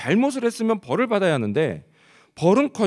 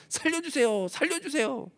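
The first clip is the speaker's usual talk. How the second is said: high, thin mock cry for help, softer as if distant; repeated urgent cry; 11 semitones higher, 6 dB quieter than usual. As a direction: plead over and over like someone drowning. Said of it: "우리도 다급하면 한 번만 말하지 않습니다". (물에 빠진 사람처럼 높고 작게 거듭 외치는 시늉)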